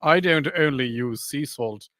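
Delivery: a hint of Mediterranean, each phrase set apart; Mediterranean accent. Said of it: "That was a Mediterranean accent".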